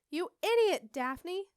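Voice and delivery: high, loud scolding outburst; angry yell. A narrator's reading. Witch berates another over the broken step, yelling. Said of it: "yelled a voice".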